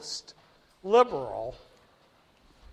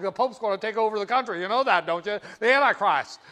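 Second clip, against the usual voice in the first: fast, loud conspiratorial panic; hammed-up fearmonger; mock alarmed conservative; 5 dB louder, faster than usual. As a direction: rattle it off like a paranoid bigot. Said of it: "you should have heard the conservative".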